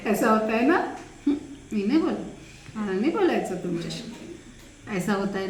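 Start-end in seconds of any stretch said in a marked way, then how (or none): 1.3-4.0 lightly sulky pout, quick and lower; mock sulk, Marathi style; sulky fake anger. Shown as a demonstration. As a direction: pout like a sulking child. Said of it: "उसको लटका राग बोलते हैं".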